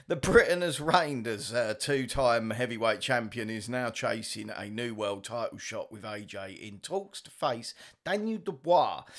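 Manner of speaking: lightly put-on news read; half-joking headline reading; mock narrator. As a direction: slip back into the narrator voice. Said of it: "I'm doing it again".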